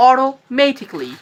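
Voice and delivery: slow "o-ro... MAY-tik-li" for অটোমেটিক্যালি; soft flapped t in অটোমেটিক্যালি; correct pronunciation. Shown as a demonstration. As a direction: carefully model অটোমেটিক্যালি ending in "-kli". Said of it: "কি বলবেন".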